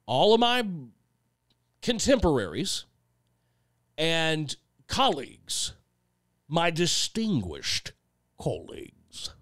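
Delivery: a light, mock posh English accent on "distinguished colleagues"; fake English accent. Shown as a demonstration. A songwriter jokingly calling peers colleagues in a mock English accent. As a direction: toss off a fake English accent, fading to a breathy whisper. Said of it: "fake one at every opportunity".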